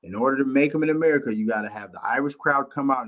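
quick, lightly voiced boss explaining; a hint of Dana White, fast-talking; imitating Dana White. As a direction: rattle it off like the promoter. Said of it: "this is Dana White speaking".

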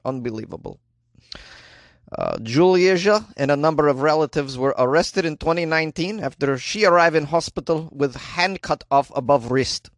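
a light put-on Slovenian accent. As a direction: read the news in a hint of Slovenian accent. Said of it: "I can do an accent that's close".

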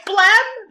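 "Phlegm" said high like "flam", unsure; mispronounced phlegm. Shown as a demonstration. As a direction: try "Phlegm" as "flam", questioning. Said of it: "I can never say phlegm".

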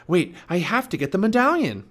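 high, loud protest; Jack shouting. A narrator's reading. Boy holding back for the medallion, shouting. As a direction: call out urgently over a storm. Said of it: "shouted Jack".

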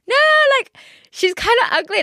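a high, bitchy, fake-confident jab; mock catty put-down. Telling listeners she can't call the ex's new girlfriend ugly, mock catty. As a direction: sneer it like a catty mean girl. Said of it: "hard to sit here and be like".

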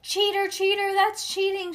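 high, loud playground shouting; loud, high cry of protest; shouted accusation. A narrator's reading. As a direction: shout it out like an outraged kid. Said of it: "she shouted".

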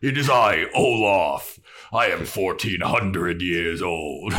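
lightly voiced pompous troll. Troll introducing himself to the bouncer, lightly voiced troll. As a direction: announce yourself as a troll, slowing at the end.

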